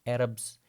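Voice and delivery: Arabs said "ARR-ubz", front a first; correct English pronunciation. Shown as a demonstration. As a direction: repeat Arabs with the a of "cat". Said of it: "you will pronounce that word as".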